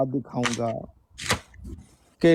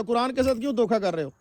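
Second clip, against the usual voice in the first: higher but much softer repeat of the accusation; quieter repeat; 4 semitones higher, 6 dB quieter than usual. Real, not acted. Debater repeating accusation to opponent, softer pointed repeat. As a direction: drop the volume and press it home.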